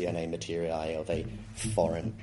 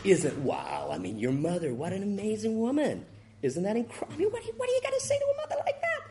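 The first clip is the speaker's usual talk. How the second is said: mock reporter, much higher and rushing fast; gushing TV interviewer; 12 semitones higher than usual. CNN interviewer gushing at the freed pilot, much higher and fast. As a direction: gush like an overexcited American newsman. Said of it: "CNN's interviewing the guy".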